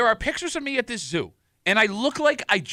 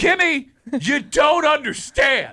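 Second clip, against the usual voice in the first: exasperated; 7 semitones higher, 5 dB louder, slower than usual. Real, not acted. Exasperated plea to co-host.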